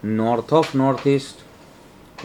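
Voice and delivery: every word stretched out for students; very slow dictation. Shown as a demonstration. Teacher slowly naming the zone for the class, drawn out. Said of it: "teacher spells out direction name".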